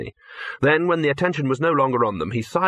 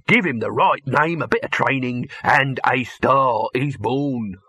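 brash hustling producer; 2 semitones higher, slower than usual. Acted. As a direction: sell the idea eagerly, pitch riding up.

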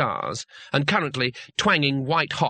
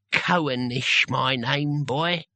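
put-on old barbarian; much slower than usual. Old barbarian answers a young wizard.

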